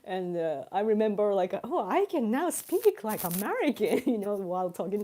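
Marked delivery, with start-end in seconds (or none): 1.6-4.0 exaggerated American intonation; swooping, proud mock American accent. Recalling talking to an American friend, swooping American accent. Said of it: "withdrawn to her accent".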